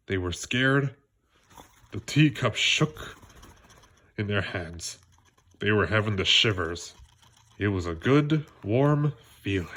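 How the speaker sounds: put-on lively read-aloud for children; animated children's book reading; story narration. A narrator's reading. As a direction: tell it like a bedtime story to kids.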